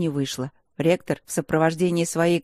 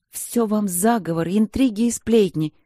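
indignant snort; 4 semitones higher, 3 dB louder than usual. Acted. Girl snaps back at the rector, huffy and offended. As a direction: scoff it out like a wronged girl. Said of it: "фыркнула она".

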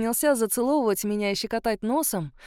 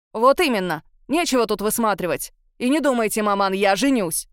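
loud angry bark; 5 dB louder than usual. Acted. Son shouts at his mother, loud angry bark. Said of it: "гневно гаркнул".

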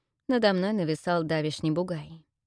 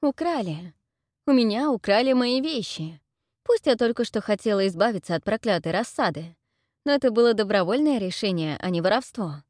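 higher, louder outrage; girl outraged her things were stolen; outraged cry; 4 semitones higher, 5 dB louder than usual. Acted. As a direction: cry out about the theft.

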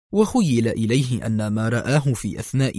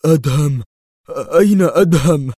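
louder, higher urgent call for Adham; sudden urgent call on waking; 3 semitones higher, 5 dB louder than usual. A narrator's reading. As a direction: jolt awake and cry out the name. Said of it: "هاتفا".

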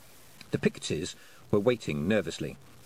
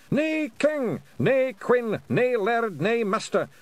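much higher, loud chanted Scots war cry; united roar; 13 semitones higher, 6 dB louder, slower than usual. Acted. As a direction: roar it together as one. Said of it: "one roar that shook the walls".

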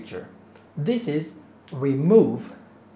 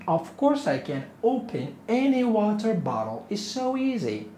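mock boastful; 6 semitones higher than usual. Teacher plays cocky learner.

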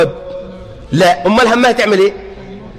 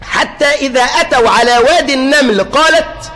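recited verse. Shown as a demonstration. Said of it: "لما تيجي تقرأ الآية".

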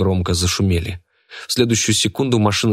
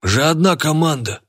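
fat man voice; 8 semitones higher than usual. A narrator's reading.

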